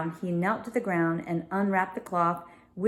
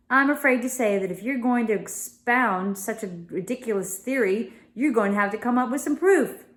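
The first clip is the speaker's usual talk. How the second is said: raised, exclaiming gentleman; Mr Gladstone voice; 3 semitones higher than usual. Acted. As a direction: voice the startled father of the house.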